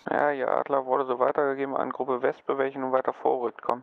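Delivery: steady radio relay; military radio. Acted. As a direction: read back like a radio operator. Relays report over radio. (ruhiger Funkspruch)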